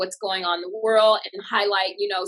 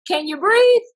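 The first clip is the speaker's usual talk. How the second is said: hospital voice; 8 semitones higher, 6 dB louder than usual. Retold or imitated. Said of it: "the hospitals would tell you".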